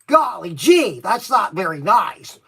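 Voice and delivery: playful high-pitched Pee Wee bit, golly-gee style; Pee Wee Herman. Pretend. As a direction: squeak it out like a giddy overgrown kid. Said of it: "I could be Pee Wee Herman if you want".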